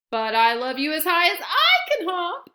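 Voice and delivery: loud big hare with a smile in it; fond playful reply; big hare smiling back at his son. Acted. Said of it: "smiled Big Nut Brown Hare".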